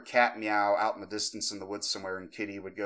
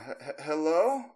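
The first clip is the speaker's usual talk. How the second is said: high, stammered, rising calls; insistent high-pitched hellos; little girl voice; 10 semitones higher, 4 dB louder than usual. Retold or imitated. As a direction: imitate an eerie child calling repeatedly. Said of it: "in a more increased rate".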